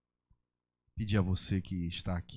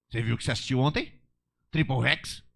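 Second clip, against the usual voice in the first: a sly, quick Satan voice, louder; tempting Satan; 3 semitones higher, 6 dB louder than usual. Acted. Satan tempting the pastor, sly and teasing. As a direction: tempt him slyly. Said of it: "Satanás fala assim".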